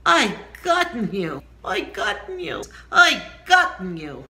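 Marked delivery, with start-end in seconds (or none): 0.1-1.4 anguished cry. Shown as a demonstration. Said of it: "that's how you build on the word oi". 2.9-4.2 loud anguished wail; pained shout; crying out in pain. Shown as a demonstration. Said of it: "I cried out in pain".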